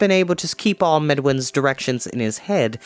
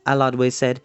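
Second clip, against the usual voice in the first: usual speaking voice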